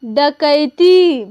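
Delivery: teacher reads डकैती aloud slowly; slow clear reading. Shown as a demonstration. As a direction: read डकैती syllable by syllable for the class. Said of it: "चलिए इसे हम direct पढ़ लेते हैं".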